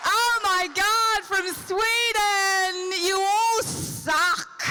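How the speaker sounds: slow, loud, high gloating; host crowing that everyone else loses; excited mock taunt. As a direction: stretch it out and rub it in. Crowing over Sweden win.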